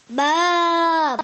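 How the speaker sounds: a lightly voiced baa; bleating sheep. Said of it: "bleated Maria the sheep".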